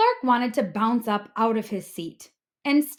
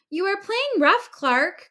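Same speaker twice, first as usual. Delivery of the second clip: cried out; 10 semitones higher, 5 dB louder than usual. A narrator's reading. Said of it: "cried the other kids".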